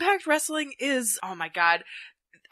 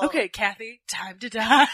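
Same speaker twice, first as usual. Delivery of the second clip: cavalier; 2 semitones lower than usual. Pretend. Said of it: "I would cavalierly say that to people".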